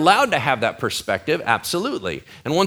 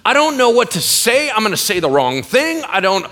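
high, rushed mock panic in your head; a friend's bad news leaves you scrambling, in mock panic; panicked inner voice; 8 semitones higher, 4 dB louder than usual. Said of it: "your mind is racing and going".

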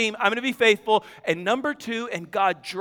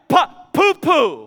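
put-on slow, higher, louder child's yell; toddler's mock scream; 5 semitones higher, 4 dB louder, slower than usual. Toddler yelling from the back seat, mock urgent scream. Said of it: "this kid screams out".

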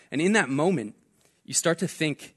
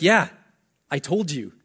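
told-you-so; 5 dB louder than usual. Retold or imitated. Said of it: "And he's like".

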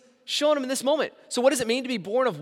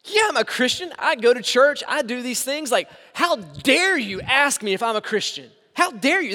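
offended churchgoer; 5 dB louder than usual. Retold or imitated. Religious person scoffing at the preacher's question, mock offended. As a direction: play the insulted religious person, huffy and proud. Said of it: "They'll get offended".

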